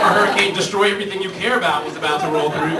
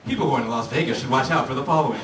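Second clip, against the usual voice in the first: disclaimer voice-over; 3 semitones lower than usual. Pretend. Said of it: "that little voice".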